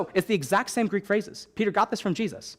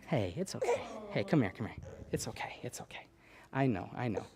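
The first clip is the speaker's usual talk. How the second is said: whispered comfort; 7 semitones lower, 12 dB quieter than usual. Real, not acted. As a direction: hush her gently, breath only. Whispering to calm baby.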